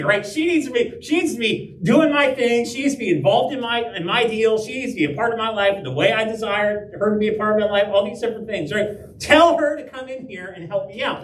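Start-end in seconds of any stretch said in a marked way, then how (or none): 0.3-8.7 kinda angry, higher and insistent; Martha. Retold or imitated. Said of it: "Martha sounds kinda angry". 9.2-11.2 mock angry demand, pitched up; Martha. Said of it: "Martha sounds kinda angry".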